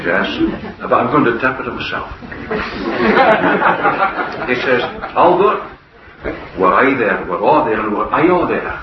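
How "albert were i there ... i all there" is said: put-on broad Scots accent, lightly done. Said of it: "I'll have to tell you what he said in broad Scots".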